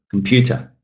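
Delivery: comPUter with a lengthened PEW; long second syllable in "computer", short ends; stressed syllable longer. Shown as a demonstration. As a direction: stretch the middle of "computer". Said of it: "It's longer".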